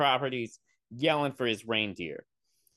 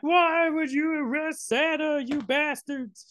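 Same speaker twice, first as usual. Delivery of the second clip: high-pitched, hammed-up child's outburst; freaked-out little girl; 10 semitones higher than usual. Little girl confronting the cops over Santa's arrest, mock freak-out. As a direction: wail it high like an outraged kid. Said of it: "the girl freaks out".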